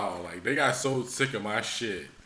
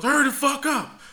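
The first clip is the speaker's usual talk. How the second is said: retold impatient order; 11 semitones higher, 3 dB louder than usual. Instructor rushing him in bathroom.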